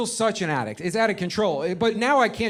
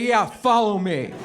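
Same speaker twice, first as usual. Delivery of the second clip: put-on slow, drawn-out drunk buddy; lightly acted tipsy guide leading the way; drunk friend; slower than usual. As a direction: drag it out like a cocky drunk. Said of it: "Waze is your drunk friend".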